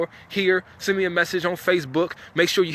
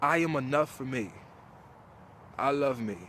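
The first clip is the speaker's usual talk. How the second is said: calm affirmation; 3 semitones lower, 8 dB quieter than usual. Shown as a demonstration. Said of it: "Repeat after me".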